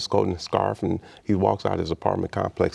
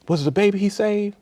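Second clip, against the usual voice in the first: much higher, shrill gasping disbelief; breathless old woman; 14 semitones higher than usual. Retold or imitated. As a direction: mimic an old lady who suddenly realizes.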